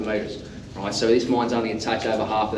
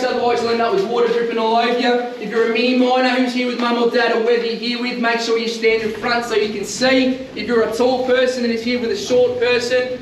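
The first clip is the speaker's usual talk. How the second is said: raised, higher voice projecting to a group; teacher voice; 5 semitones higher than usual. Real, not acted. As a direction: address the tour group like a class. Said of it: "Got my teacher voice on".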